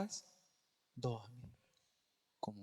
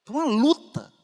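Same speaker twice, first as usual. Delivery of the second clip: emphatic; 8 semitones higher, 10 dB louder than usual. Real, not acted. Building up a fight scene.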